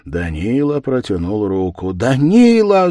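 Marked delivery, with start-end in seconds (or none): 1.9-2.9 high, loud despairing call; desperate cry. Acted. Wife throws herself at her husband's feet, desperate cry. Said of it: "закричала в отчаянии".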